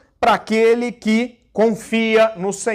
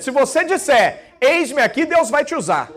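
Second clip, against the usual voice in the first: higher, bold prophetic proclamation; 4 semitones higher than usual. Shown as a demonstration. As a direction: declare it like a confident prophet. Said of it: "com voz de profeta".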